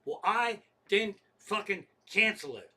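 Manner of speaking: retold outburst of exasperation; fed-up anger. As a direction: push back indignantly at the operator. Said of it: "Now I'm fucking nuts".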